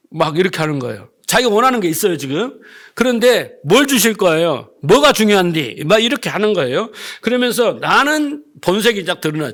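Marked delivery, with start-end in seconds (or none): 3.6-5.8 mock-indignant demand; retold annoyance, with some push; mildly angry. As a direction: imitate an irked man challenging God. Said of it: "좀 화가 났어요".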